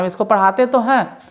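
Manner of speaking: तो हैं hit loud and high; stress on तो. Shown as a demonstration. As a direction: press on तो to insist. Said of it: "जोर दे के बोल रहा है". ("तो" पर ज़ोर देकर ऊँचा)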